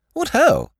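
high, loud startled exclamation; silly-ass lord's cry of discovery; surprised lordship. A narrator's reading. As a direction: exclaim brightly in a high lordly voice. Lordship exclaims at the dropped necklace.

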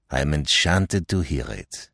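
low, composed, courteous reply; cool politeness. Acted. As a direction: answer the outburst with calm courtesy. Poirot's cool reply to the quarrel.

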